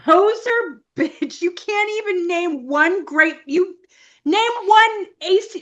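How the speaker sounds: high-pitched mock fan outrage; mock indignation. Metal fan challenging a poser, mock-indignant. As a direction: challenge them like an affronted gatekeeper. Playing an angry music fan.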